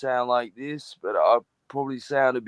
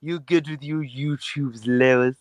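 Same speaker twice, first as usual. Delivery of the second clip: Stewie voice; 4 dB louder, slower than usual. Pretend. Continuing the Stewie bit.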